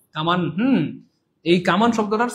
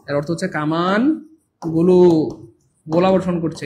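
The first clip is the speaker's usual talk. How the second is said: slow repeat; 2 semitones lower, slower than usual. Shown as a demonstration.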